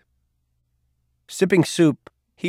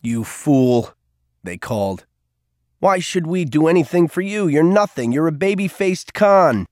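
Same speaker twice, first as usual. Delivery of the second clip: louder, higher jeering voices; mocking monsters; 6 semitones higher, 5 dB louder than usual. A narrator's reading. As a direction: sneer at him like nightmare monsters. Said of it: "they laughed at him".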